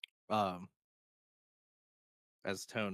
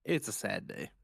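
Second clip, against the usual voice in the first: sad whisper. Real, not acted. Mourning the game shutdown.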